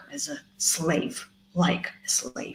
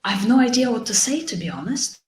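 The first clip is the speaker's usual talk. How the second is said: honest admission; 4 semitones higher than usual. Shown as a demonstration. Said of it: "you can just say".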